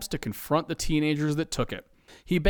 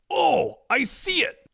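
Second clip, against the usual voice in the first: excited, higher-pitched discovery; exclaiming; 10 semitones higher, slower than usual. A narrator's reading. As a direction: exclaim as you spot it. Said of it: "Ed exclaims".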